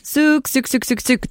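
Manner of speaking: high calling sook for calves; calf call. Shown as a demonstration. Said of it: "for calves".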